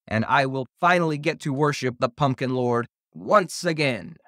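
high, theatrical villain proclamation; triumphant evil monster. A narrator's reading. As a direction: proclaim doom with mounting relish.

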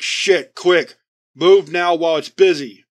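urgent shout. Acted. Squad leader yelling at his team to flee, urgent shout.

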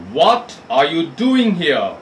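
a lightly voiced gruff giant, slow. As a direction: growl it out like an angry giant. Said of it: "cried the giant in a very gruff voice".

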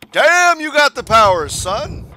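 hammed-up impressed bro; mock impressed clock. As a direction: voice the clock as amazed. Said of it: "It's just like".

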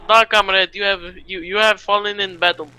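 put-on Russian accent. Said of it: "we're Russian".

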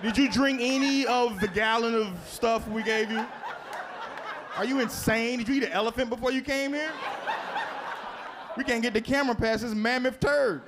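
high, incredulous doctor scolding a patient; mock outrage from the surgeon; doctor chewing out a patient.

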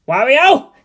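a loud breathy whispered call; panicked call. Acted. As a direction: hiss for your friend in alarm. Waluigi panics, calls his friend.

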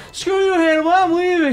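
high, squealing mock tantrum; hammed-up adolescent exit line; teen storming off. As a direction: screech it like a humiliated kid. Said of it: "And then the kid's like".

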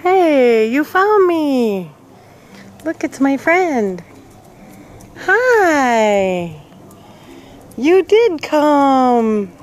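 light up, a stretched, happy hello; excited greeting. Real, not acted. Greeting the lost animal.

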